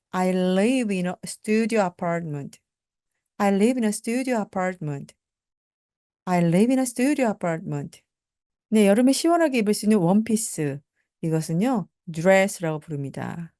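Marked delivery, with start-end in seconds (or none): 0.1-8.0 slow, careful model sentence; deliberate classroom pronunciation; slow teaching drill. Shown as a demonstration. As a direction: say it slowly for learners to repeat. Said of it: "slow model sentence drill".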